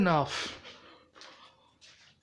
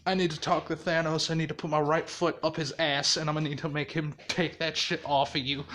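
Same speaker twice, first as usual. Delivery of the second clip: lower, muttered irritation; weary annoyance; 4 semitones lower, 4 dB quieter, faster than usual. Retold or imitated. Izuku grumbling about dealing with Thanos, weary and annoyed. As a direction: grumble it low, fed up. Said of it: "he's just like".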